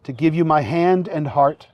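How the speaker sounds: officiant feeding vows phrase by phrase; short phrases with pauses. Shown as a demonstration. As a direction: say each phrase, then pause for the repeat. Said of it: "repeat after me phrase by phrase".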